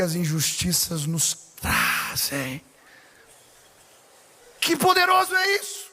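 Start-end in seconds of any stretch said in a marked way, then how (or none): 4.6-5.9 much higher, thrilled preacher; fervent exclamation. Acted. Pastor marvelling before the church, high and fervent. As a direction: burst out with wonder.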